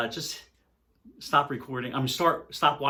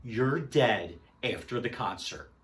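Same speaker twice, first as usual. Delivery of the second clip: big guy's threat; 3 semitones lower, 4 dB quieter, slower than usual. Retold or imitated. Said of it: "points at me and says".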